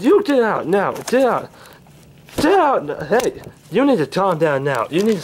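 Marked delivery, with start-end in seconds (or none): 0.0-1.5 a firm get out, not yet yelling; stern get out before the yell; firm order. Acted. Chasing someone out of the room. 2.4-2.9 high, angry yell of Get out!; yelled order. Acted. Chasing someone out of the room.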